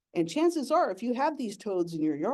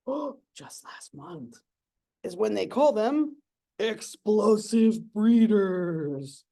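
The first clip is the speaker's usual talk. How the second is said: excited; 3 dB louder, much slower than usual. Retold or imitated. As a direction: gush like a kid sharing a favourite fact. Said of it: "I get excited talking about these guys".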